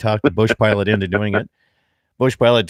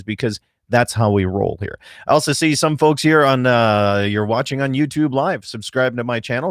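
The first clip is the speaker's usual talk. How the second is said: bright, loud on-air radio welcome, slowing down for the phone number; radio host open; 3 semitones higher, 4 dB louder than usual. Real, not acted. Radio host greeting listeners at the show's open, upbeat announcer voice. Opens live radio show.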